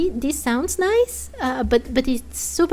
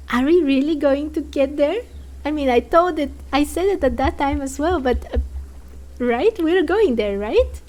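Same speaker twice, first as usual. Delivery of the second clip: excited eager; 2 semitones higher, 4 dB louder than usual. Real, not acted. Excited about forbidden court.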